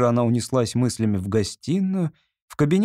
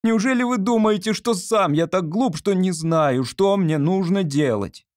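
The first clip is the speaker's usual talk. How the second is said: higher, sharply indignant, slowed on the barbs; irritated retort; 7 semitones higher than usual. A narrator's reading. Artist snapping back at Olga's advice, irritated and higher. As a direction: bristle at the suggestion, wounded pride. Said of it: "поморщился художник".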